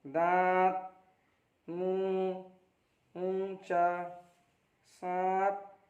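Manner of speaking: each word with its vowel sent through the nose and held; nasal vowel demo. Shown as a demonstration. Teacher reading chandrabindu examples to pupils, nasal vowels held. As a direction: dwell on the nasal in दांत and चांद. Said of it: "एक second तक नाक में आवाज़ ले जाकर ठहरना है".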